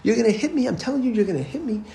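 put-on high, insistent child's protest, not loud; mock screaming boy. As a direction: imitate a panicked boy insisting. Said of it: "he gets louder and louder, and he's screaming".

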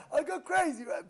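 ordinary delivery

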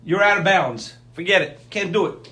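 loud, firm mock scolding; stern rebuke. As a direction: stop him in his tracks, sharply. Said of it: "We tell him".

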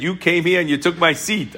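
lightly voiced griping congregant; a hint of a wronged old man complaining; mock complaint. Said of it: "years later he complained".

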